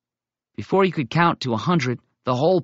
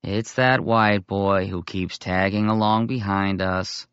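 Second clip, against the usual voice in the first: scornful drawl; 4 semitones lower, slower than usual. Acted. Dirt Seller scorns the follower.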